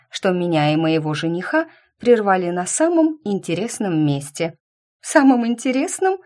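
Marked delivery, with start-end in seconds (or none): 5.0-6.2 high, startled echoing question; taken-aback, rising repeat; hiccuped echo. A narrator's reading. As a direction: echo it in high-pitched disbelief. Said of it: "икнула девушка".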